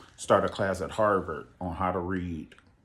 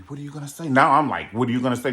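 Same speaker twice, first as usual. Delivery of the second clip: anxious excitement; 5 semitones higher, 7 dB louder, much faster than usual. Retold or imitated. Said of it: "made me start biting my nails".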